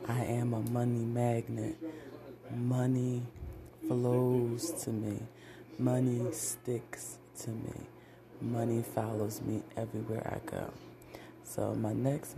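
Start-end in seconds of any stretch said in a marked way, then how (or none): 0.1-10.7 deliberate affirmation with weight on money; confident money affirmation; money mantra. Acted. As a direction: recite it like a spell that draws cash.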